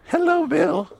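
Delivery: slow, very high put-on voice; drawn-out, high-pitched imitation; movie actress impression. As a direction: mimic her greeting in a high, lilting voice. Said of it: "this is the way she talked".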